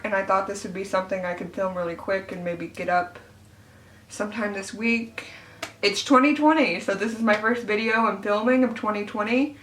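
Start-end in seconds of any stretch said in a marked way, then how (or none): 5.8-9.6 teeth whitening trays in; talking around mouth trays. Real, not acted. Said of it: "If I sound weird, it's because of that".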